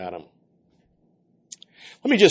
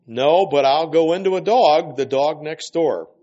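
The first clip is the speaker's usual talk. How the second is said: raised voice, settling toward the end; defiant bargaining; 4 semitones higher, 5 dB louder than usual. Acted. Demon bargaining with the healer, mildly raised voice. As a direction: push back loudly, then ease off.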